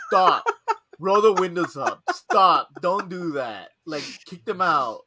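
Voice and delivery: panicked yell. Retold or imitated. Coworker begging to roll the windows up, panicked yell. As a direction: freak out about the moths. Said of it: "And he just like".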